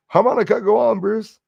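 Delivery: high, loud hail; hearty shout-out. Acted. Streamer hails a viewer in chat, hearty shout-out.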